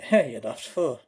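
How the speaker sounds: scoffing Irish brogue; put-on Irish telling-off; Irish accent. Irishman correcting a fake, Irish accent. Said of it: "If you want a good Irish accent".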